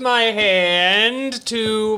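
muffled by a hand over the mic. Real, not acted. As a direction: speak through a hand covering the mic. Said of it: "I'm covering the microphone with my hand".

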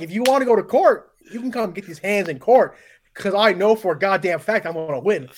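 worked up, playfully combative; heated rant. Acted. Podcast guest ranting at the airline, heated. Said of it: "Get more angry".

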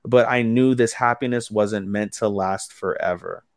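slow, measured retold narration; mildly ominous. Recapper quoting Yaika's closing words, mildly ominous. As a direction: quote it slowly with a touch of foreboding. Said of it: "But ominously, she says".

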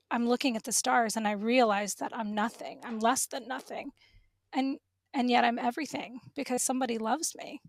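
real emotion, fading to a whisper; moved voice that drops into a whisper; close to tears. Real, not acted. Sharing her faith with the host, whispering through real tears. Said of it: "I can't talk about it without crying".

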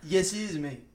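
half-hearted attempt at a British accent; badly faked British, drifting toward Australian. Host answering a doubting co-host in a badly faked British accent. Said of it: "supposed to be a British accent".

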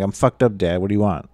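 dismissive sarcastic reply to Dad; imitated sarcastic retort. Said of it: "is he being sarcastic and just saying".

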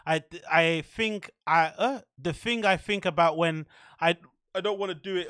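stumbling over hiccups. Real, not acted. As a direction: hiccups breaking the words. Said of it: "Oh, my hiccups".

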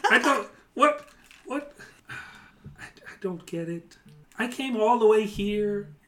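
a frazzled goblin complaining to himself; ranting goblin boss. Acted.

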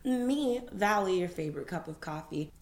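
muffled talking through teeth whitening; talking with a whitening tray in. Real, not acted. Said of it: "if I sound a bit muffled right now".

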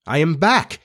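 understated indignant declaration; hotly. Acted. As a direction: announce it with a touch of heat. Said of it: "he said hotly".

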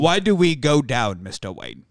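hammy Cockney butler's question; Michael Caine. Acted. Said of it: "I've got a Cockney accent".

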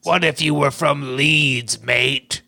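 put-on British accent from Leeds. Brother coaxing Mokuba to be from Leeds, British accent. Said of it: "Try a British accent".

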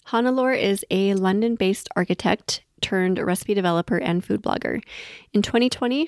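scripted guest-bio read; intro read. Acted. Host introducing the guest to listeners, read intro.

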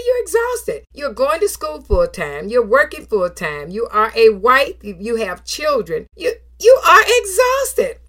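high, voice breaking into tears; doctor's words through rising tears; tearful retelling of the doctor. Retold or imitated. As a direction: choke up as you repeat the doctor.

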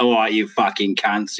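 put-on slow, rough British movie-type accent. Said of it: "Or we're like".

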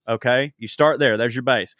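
ordinary delivery

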